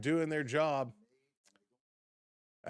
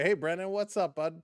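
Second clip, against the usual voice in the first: higher-pitched Canadian hello; Canadian greeting; 4 semitones higher, 3 dB louder than usual. Real, not acted. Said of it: "that sounded so Canadian".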